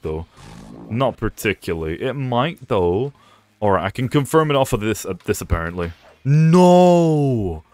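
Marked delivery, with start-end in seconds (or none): 6.2-7.6 sharp high shout of dismay; sudden shout. Real, not acted. Player yelling at the game, a high startled no. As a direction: yell out as the ult fails. Combo attempt fails in game.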